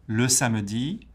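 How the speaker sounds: SAMEDI climbing on its last syllable; rising intonation. Shown as a demonstration. Teacher showing a middle French unit, SAMEDI rising. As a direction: lift the end of SAMEDI. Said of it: "intonation goes up at the end".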